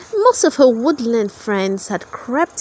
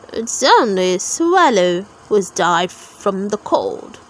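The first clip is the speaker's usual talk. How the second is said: lower mole voice; 5 semitones lower than usual. Acted. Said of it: "the mole shouted over his shoulder".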